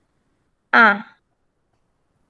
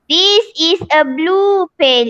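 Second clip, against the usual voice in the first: slow, every word clear; slow model sentence; slower than usual. Shown as a demonstration. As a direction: read it out slowly for the class to copy. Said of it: "teacher models sentence slowly". (ayat dibaca perlahan-lahan)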